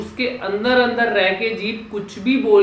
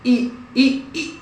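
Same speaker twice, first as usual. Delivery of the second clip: ई pushed higher with force; strained ee; 4 semitones higher, slower than usual. Shown as a demonstration. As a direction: strain on ई to show the mistake. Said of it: "अगर इतना जोर लगा के कुछ भी बोलोगे". (ज़ोर लगाकर ऊँचा ई)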